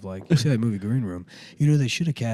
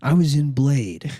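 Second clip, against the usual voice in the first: Steven Dorff. Acted. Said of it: "Steven Dorff".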